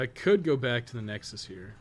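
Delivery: ordinary delivery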